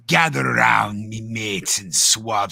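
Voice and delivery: pirate voice. Retold or imitated. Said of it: "the whole intro to the pirate".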